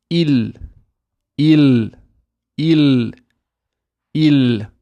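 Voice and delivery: IL with a long clear l; tongue-up lam. Shown as a demonstration. Teacher drilling lam sukoon, held l. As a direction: hold the l of IL on the palate. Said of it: "make sure your tongue goes up".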